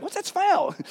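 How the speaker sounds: high, puzzled coworker question; coworkers sniffing. Retold or imitated. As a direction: wrinkle your nose at the stink. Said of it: "Everybody's like".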